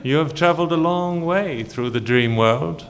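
booming echoing villain monologue. Acted. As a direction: savor each threat like a tyrant. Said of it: "I am the D M".

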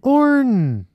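hammed-up French Orne; mock French. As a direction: mouth Orne like a posh Frenchman. Playing with the French word.

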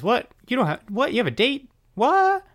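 high, rising squawks of disbelief; mock shock. Elvira hearing he has a date, hammed-up shock. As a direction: build to a very high, loud "What?".

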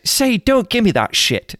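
a small son coaching his dad, hammed up; mimicking a child. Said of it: "he's like".

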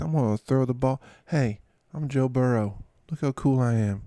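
lightly voiced laid-back athlete; casual mock swagger; Joe Burrow. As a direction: play it cool, brushing off an injury. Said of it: "Joe Burrow finally was like".

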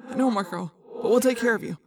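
subdued, steady comfort; gently calm a frightened friend; reassuring. Acted. Leader promising to look after his friend, reassuring.

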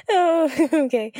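a high squeal of laughter breaking into oh okay; can't hold it in, laughs and tries to recover; laughing again. Acted. Nim laughing after Al asks why, high squealing laugh. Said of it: "Why are you laughing?".

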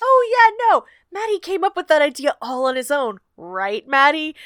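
high, loud mock-innocent opening; teasing father. Father needling a grumpy son in front of mom, teasing. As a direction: lay it on thick to tease a child. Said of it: "chance to tease his grumpy son".

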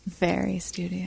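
slow, soft droning teacher; droning teacher impression. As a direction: drone it like a dull teacher. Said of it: "It's nice when you say it like that".

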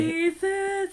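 high hammed-up hiss; hissed Jesus. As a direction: hiss it like a snake. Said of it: "how can you hiss Jesus".

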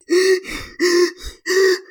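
acted panicky puffing; breathing into bag. Frog breathes into a paper bag to calm down, panicked puffing. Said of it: "He's breathing into it".

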